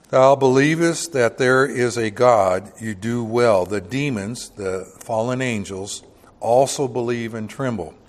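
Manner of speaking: formal verse reading; scripture reading. Acted. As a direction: read the verse with pulpit weight. Reads scripture aloud.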